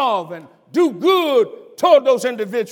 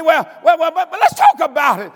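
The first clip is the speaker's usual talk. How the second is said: eager coaxing; 4 semitones higher, 4 dB louder, faster than usual. Retold or imitated. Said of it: "And I say".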